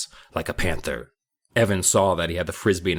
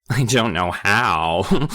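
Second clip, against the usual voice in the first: calm; 2 semitones higher, 3 dB louder, much slower than usual. Acted. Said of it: "Kermit replied calmly".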